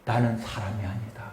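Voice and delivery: soft, low first take of the verse; quiet first reading. Shown as a demonstration. Preacher leads the congregation in the verse, quiet and low. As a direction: start the verse hushed and low. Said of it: "오늘 구 절 말해요".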